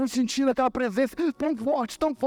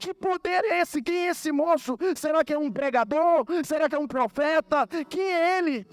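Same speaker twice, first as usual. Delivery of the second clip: higher-pitched, urgent questions, retold; retold tearful bewilderment; 5 semitones higher than usual. Patient questioning God as the doctor leaves, retold tearful wonder. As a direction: plead in mounting bewilderment, lightly tearful. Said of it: "E eu chorando, pensando".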